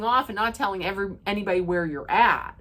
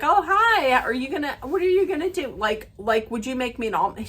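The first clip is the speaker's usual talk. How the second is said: high, sing-song mock request; imitating her as a sweet, breezy ask; hammed-up sugary voice, pitched up; 3 semitones higher, faster than usual. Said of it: "She didn't say".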